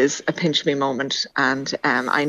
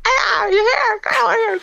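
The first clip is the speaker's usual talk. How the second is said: mother calling out; slower than usual. Retold or imitated. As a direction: call out like an Irish mammy at the door. His mother voiced calling out.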